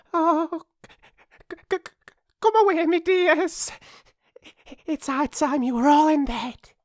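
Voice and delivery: high, loud, stammering canary; trembling. A narrator's reading. Canary calling its children away, trembling. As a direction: call out high, stuttering with fright. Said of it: "called out in a trembling voice".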